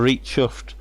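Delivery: natural broad Lancashire accent. Real, not acted. Angler telling viewers about his catch, broad Lancashire. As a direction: say it in Lanky twang. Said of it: "that's my broad accent from Lancashire".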